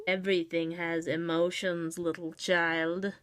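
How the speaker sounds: a hint of a low, wise creature; low, slightly otherworldly voice; lightly voiced monster. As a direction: speak it like an old being to a child. Voicing a monster.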